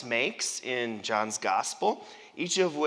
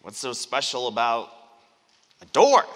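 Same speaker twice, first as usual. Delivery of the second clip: puzzled; 3 semitones lower, 4 dB louder than usual. Pretend. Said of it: "So we think".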